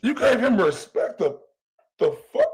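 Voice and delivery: squeaky high shocked "the fuck"; real outraged shock; shocked disbelief. Real, not acted. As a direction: yelp in disbelief. Reacting to rival's claim.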